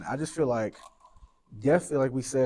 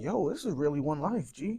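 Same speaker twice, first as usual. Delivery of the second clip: urgent plea; 4 semitones higher than usual. Retold or imitated. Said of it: "I just be like".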